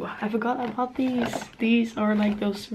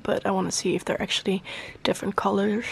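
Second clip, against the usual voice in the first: talking weird; faster than usual. Real, not acted. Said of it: "I'm talking really weird".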